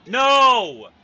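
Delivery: building furious yell; anguished rage scream. Real, not acted. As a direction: scream it in utter frustration. Fails again, screams at game.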